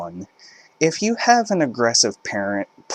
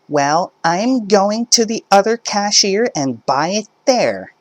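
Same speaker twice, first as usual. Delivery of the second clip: much higher, louder threat; huffy mother; 12 semitones higher, 5 dB louder than usual. Acted. Mother threatening to go elsewhere, high huffy voice. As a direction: storm off in a huff. Entitled mother arguing at checkout.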